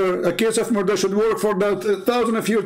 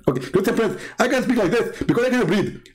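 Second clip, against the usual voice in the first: mock Zakir Naik, fast; 3 semitones higher than usual. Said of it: "Zakir Naik will answer with high speed".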